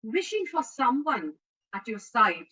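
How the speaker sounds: poem recitation. Real, not acted. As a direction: recite line by line, leaning on each repeated phrase.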